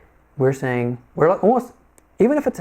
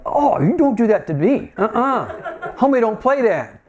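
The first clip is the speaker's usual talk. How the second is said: higher-pitched playful scolding; mock indignation; 5 semitones higher than usual. Farmer telling off the rooster that challenged him, mock indignant. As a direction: put an upstart in its place, hammed-up.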